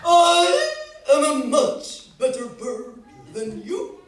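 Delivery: loud haughty boast, laughing a little; Peacock bragging. Acted. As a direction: puff up and crow it. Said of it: "he'd say".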